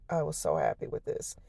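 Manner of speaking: unvoiced breathy whisper. Shown as a demonstration. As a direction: whisper it, no voice at all. Repeats line in a whisper.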